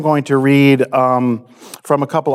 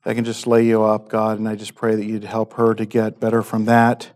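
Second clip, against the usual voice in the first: hushed, earnest prayer to God; 3 semitones lower than usual. Real, not acted. Pastor prays before communion.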